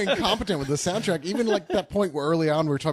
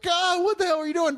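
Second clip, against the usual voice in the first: exasperated outburst; 12 semitones higher than usual. Retold or imitated. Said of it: "You're like".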